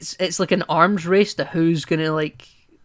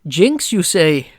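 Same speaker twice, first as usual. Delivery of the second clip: slow, posh British Bond drawl; mock-aristocratic British quip; highbrow British; 6 dB louder, much slower than usual. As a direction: lean into a lofty British gent, drawn out. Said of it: "in the most highbrow British voice ever".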